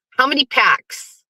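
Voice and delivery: taunt. Pretend. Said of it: "taunting Pat".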